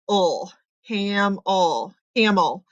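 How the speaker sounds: "camel" sounded out slowly as "cam, ul"; lazy "ul" ending on "camel"; schwa sound. Shown as a demonstration. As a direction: split "cam, ul", then blend into "camel" with a schwa. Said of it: "it's gonna make that schwa".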